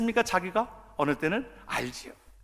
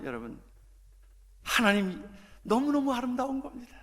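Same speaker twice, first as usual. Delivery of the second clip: usual speaking voice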